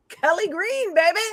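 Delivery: cocky. Retold or imitated. Colorblind husband showing off his new bike, cocky. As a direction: announce it with smug pride. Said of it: "it's the hubris".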